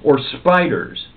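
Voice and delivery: slow, teasing spooky hint; playful teasing. Acted. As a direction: tease them about spiders. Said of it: "while playfully craning".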